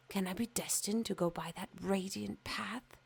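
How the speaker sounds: hushed, thrilled wonder; exulting whisper. Acted. Fir tree dreaming of its Christmas fate, hushed and exulting. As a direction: breathe it with hope.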